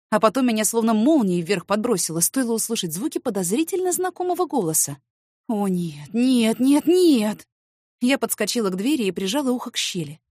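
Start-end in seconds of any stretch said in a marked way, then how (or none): 5.5-7.5 rising panic. Acted. Woman hearing her family arrive, panic building. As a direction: dread growing with each no.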